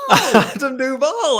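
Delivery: slow, high, loud relish of the name; a gleeful, stretched-out repeat; drawn-out excited echo. Real, not acted. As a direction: savour the name as you echo it.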